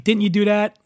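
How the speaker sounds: "didn't" run together as "dint"; Philly "didn't". Shown as a demonstration. Host demonstrates in a question, Philly pronunciation of didn't. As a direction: clip the middle out of didn't, Philly style. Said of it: "nobody says "didn't".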